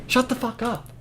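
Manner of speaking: mock annoyed crowd. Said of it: "Everyone's just like".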